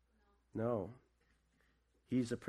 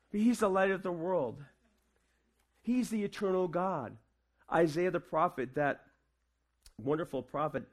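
raised, ringing sermon voice; preaching. Acted. Pastor preaching to the church at Christmas, ringing and raised. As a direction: preach it out to the congregation.

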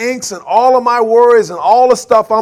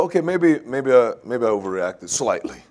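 sheepish admission; 8 semitones lower, 4 dB quieter than usual. Retold or imitated. Imitating third reading.

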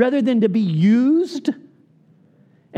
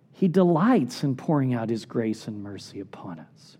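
lower, whispered reassurance; tender whisper; 9 semitones lower, 5 dB quieter than usual. Real, not acted. Preacher reassures the congregation of God's mercy, whispered. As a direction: soothe them with grace, barely voiced.

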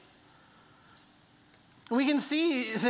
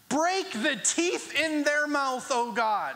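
David's fierce prayer; 3 semitones higher, slower than usual. Acted. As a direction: declaim it slowly as a fierce plea. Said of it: "we see David write this".

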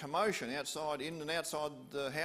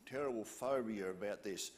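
low soothing paraphrase, unhurried; soft reassurance; 4 semitones lower than usual. Acted. Jesus comforting Jairus, soft and low. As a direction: speak to calm a frightened father. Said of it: "So Jesus is saying".

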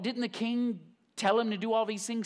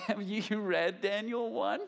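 laughing question; 3 semitones higher than usual. Real, not acted. Laughing at friend's fast.

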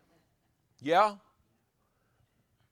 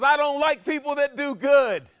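mocking hater; 9 semitones higher, 9 dB louder than usual. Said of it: "someone says".

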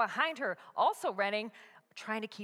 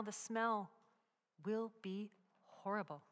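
ordinary delivery

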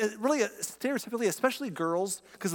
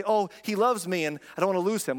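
put-on insecure girl; 4 semitones higher, 3 dB louder than usual. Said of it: "they'll say".

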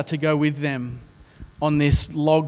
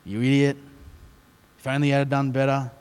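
softly voiced scolding, much softer, barely acted; muted scolding; 3 semitones lower, 5 dB quieter than usual. Preacher quoting the scolding Elisha never gave, subdued. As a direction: mutter the insults without heat. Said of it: "He doesn't shame him and say".

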